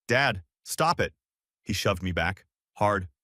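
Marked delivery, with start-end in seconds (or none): 0.1-1.1 shout. Acted. Son shouting at his father mid-rampage. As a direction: try to stop him.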